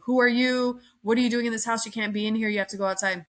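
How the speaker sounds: pissed-off demand. Retold or imitated. Homeowner ordering a stranger out of his house, mock angry. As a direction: imitate an angry man confronting a stranger. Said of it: "all pissed off and is like".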